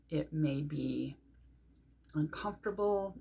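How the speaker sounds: soft, settled meditation voice; guided meditation. Shown as a demonstration. Teacher setting everything aside to focus on breath, guided meditation. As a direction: let each phrase sink, with pauses.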